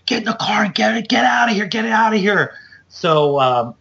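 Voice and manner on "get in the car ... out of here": high, fast hushed hurry-up; imitating a whispered hurry order; urgent whisper. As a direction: rush them out in a hiss. Carlos hurrying them out.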